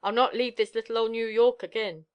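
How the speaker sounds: narrator's mildly angry protest; feeble wrath. A narrator's reading. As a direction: refuse with worn-out anger. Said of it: "she said with feeble wrath".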